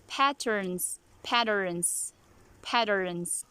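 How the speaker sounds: patterns said as padderns; flap T. Shown as a demonstration. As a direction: tap the T in patterns like a D. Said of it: "replacing the letter T with D sound".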